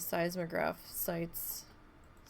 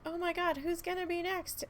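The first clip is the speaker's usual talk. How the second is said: mock panic; 10 semitones higher than usual. Mocking panicky chat users.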